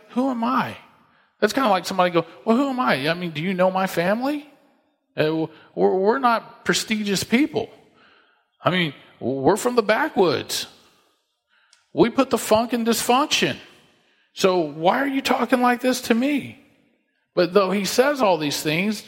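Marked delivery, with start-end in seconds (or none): 0.1-0.8 higher-pitched, self-deprecating question; humble disbelief. Acted. Saul answers the seer, humbly disbelieving. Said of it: "He's being very humble". 2.4-16.6 self-deprecating protest, pitch often lifted; humble disbelief. Acted. Someone from a humble family protests to the seer, self-deprecating. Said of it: "He's being very humble".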